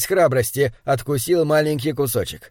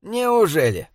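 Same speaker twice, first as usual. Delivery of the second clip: higher-pitched, lively question; perked-up interest; 4 semitones higher, slower than usual. Acted. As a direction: ask with sudden interest. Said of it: "оживился Боб". (оживлённо, с интересом)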